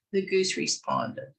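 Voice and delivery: usual speaking voice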